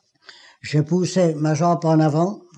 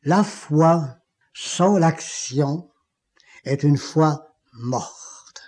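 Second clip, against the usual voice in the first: divine voice; slower than usual. Retold or imitated. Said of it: "la même voix me dit".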